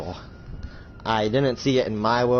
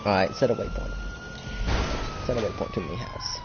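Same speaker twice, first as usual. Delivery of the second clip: high mock voice command; 6 dB quieter than usual. Talking to car voice command.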